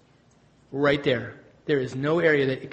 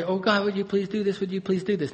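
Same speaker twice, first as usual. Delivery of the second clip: lightly imitated begging prayer; understated mock prayer; mock pleading; 2 semitones higher than usual. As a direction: repeat the request like a mild plea. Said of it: "we begin to plead with God".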